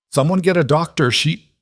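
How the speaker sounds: urgent shout for a doctor. A narrator's reading. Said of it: "she shouted".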